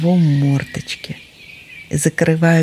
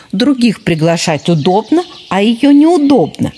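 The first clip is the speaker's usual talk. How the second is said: indignant fox cub; 5 semitones higher than usual. Acted. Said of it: "возмутился лисёнок".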